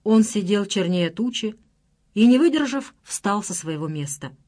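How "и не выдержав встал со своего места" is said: usual speaking voice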